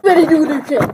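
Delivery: unvoiced secretive whisper. Real, not acted. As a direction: whisper it under your breath. Whispered intro.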